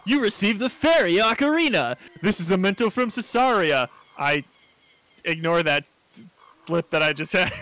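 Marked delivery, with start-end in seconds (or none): 0.0-3.9 lightly performed announcement of an item; game text read-out. Acted. Reading the ocarina message aloud, announcing voice.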